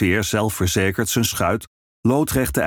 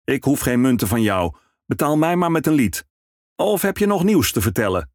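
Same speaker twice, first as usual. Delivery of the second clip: cheerful ferryman; 6 semitones higher than usual. Acted.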